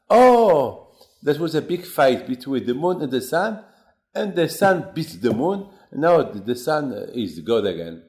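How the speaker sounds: high, loud excited exclaiming, with a big opening oh; excited child. Acted. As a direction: marvel out loud at the sun beating the moon.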